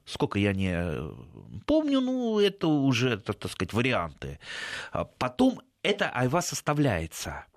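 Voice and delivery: normal talking voice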